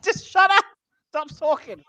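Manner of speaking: high, loud "No!" then settling; exasperated shout. Retold or imitated. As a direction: cut them off in frustration. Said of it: "I'm like".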